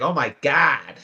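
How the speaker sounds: imitated Midwestern exclamation; Midwest accent. Friend comparing Canadian with Midwest speech, Midwest accent. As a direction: put a Midwest vowel on "God". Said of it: "You go to the Midwest, it's like".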